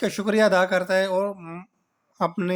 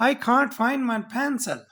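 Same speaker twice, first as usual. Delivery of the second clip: slow and a bit higher, spelt out; slow model sentence; 5 semitones higher, much slower than usual. Shown as a demonstration. Teacher voicing the son asking dad for his pencil, slow. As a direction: say it slowly like a dictation.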